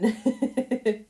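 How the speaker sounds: loud high burst of laughter; laughing. Real, not acted. Laughing at herself.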